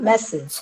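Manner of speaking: "മെസ്സേജ്" stressed on the opening മെ; stress on first syllable. Shown as a demonstration. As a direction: lean on മെ, let സേജ് fall away in "മെസ്സേജ്". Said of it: "മ എന്നതിനാണ് stress കിട്ടുന്നത്". ("മെസ്സേജ്" എന്നതിൽ ആദ്യ ഭാഗം ഊന്നിപ്പറയുക)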